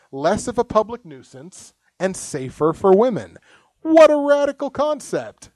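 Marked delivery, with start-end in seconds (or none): 3.8-5.5 sarcastic. Acted. Sarcastic praise of the news.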